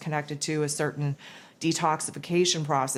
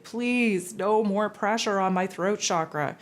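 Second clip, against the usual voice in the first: higher, pleading groan of complaint; exasperated plea; 4 semitones higher than usual. Retold or imitated. Speaker begging her guides, exasperated and pleading. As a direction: beg off like one more burden is too much. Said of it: "I was like".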